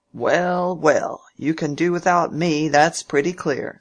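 a hint of a testy old uncle, pushing hard; old Featherstone.

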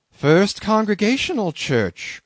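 high, astonished exclamation; incredulous cry. A narrator's reading. Pious captain echoing the claim, incredulous cry. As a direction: throw the name back in disbelief. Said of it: "cried Bildad".

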